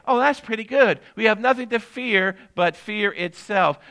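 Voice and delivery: everyday folks approving the quote; impressed listener. Retold or imitated. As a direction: play a casual admirer nodding along. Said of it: "people listen to that statement and they say".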